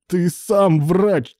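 a loud, high, slow, exasperated bark. A narrator's reading. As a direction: snap at him for being slow-witted. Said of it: "рявкнул Илья".

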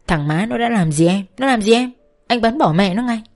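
husband erupts at the man who took his wife; angry threat. Acted. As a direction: flare up and threaten to shoot him. Soldier threatens wife's lover.

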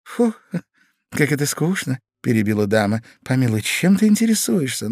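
high, exasperated interruption; bored wife. A narrator's reading. Wife cutting off her husband's story, exasperated.

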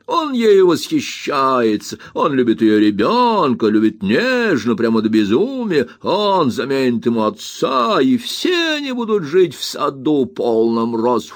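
a light sing-song parody of a doting suitor; gently mock his honeyed promises; mock sweetness. Aunt mocks the brother's courting talk with light sarcasm. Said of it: "mocking the suitor's sweet talk".

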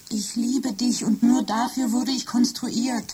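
whispered, slow devotion; slow loving whisper. Acted. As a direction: breathe the confession slowly. Machine declares its love. (langsames, zärtliches Flüstern)

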